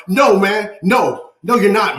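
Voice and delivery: emphatic, heated refusal; worked-up, insistent no; passionate objection. Real, not acted. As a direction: cut them down with real conviction. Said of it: "you know how passionate I am".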